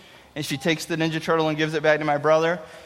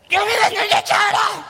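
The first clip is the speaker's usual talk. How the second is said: put-on high shouted kid demand; headlock demand; 13 semitones higher than usual. Big brother in headlock mode, high shouted demand. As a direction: yell it while squeezing. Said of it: "I say".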